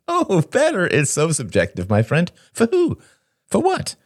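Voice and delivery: high, airy, mocking woman's voice; Helen, scornful. Helen mocks her friend's judgement of who is better, scornful. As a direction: pitch it right up and scoff.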